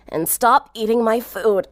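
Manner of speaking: slow, tired gripe; lightly voiced sick girl; grumbling from under blankets; sick grumble. A narrator's reading.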